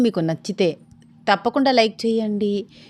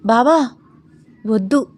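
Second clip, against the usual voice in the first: bashful little protest, raised on the first word; shy refusal; 3 semitones higher, 4 dB louder than usual. A narrator's reading. Sita stopping her bava's advance, shyly. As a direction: refuse shyly, in two halting bits. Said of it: "సిగ్గుపడుతూ అంది సీత".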